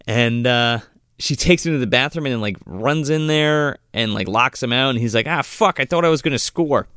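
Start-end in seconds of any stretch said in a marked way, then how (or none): 5.3-6.9 imitated grumble of disappointment; mock frustration. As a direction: play up the letdown, pitch raised. Acting out man locked out, frustrated.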